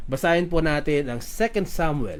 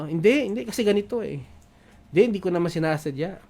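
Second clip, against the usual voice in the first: quick, higher mock excuse-making; defensive excuse; 3 semitones higher, faster than usual. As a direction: imitate someone brushing off blame. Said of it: "defensive tayo eh".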